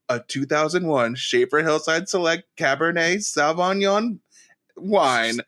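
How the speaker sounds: put-on Borat-style accent on the wine name; a Borat accent naming the wine. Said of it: "I said it like Borat".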